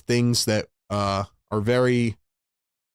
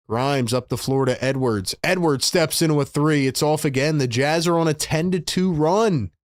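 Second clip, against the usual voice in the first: brisk, raised play-by-play call; live play-by-play; 3 semitones higher than usual. Acted. Fan streamer calling the Sixers game for chat, play-by-play. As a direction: call the action like a broadcaster.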